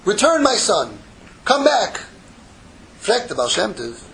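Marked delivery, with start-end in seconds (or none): 0.0-2.0 lightly acted call, rising on the second phrase; heavenly voice. Heaven calling a son back every day, lightly voiced call. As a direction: call down from heaven, a little higher. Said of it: "a heavenly voice comes out every day".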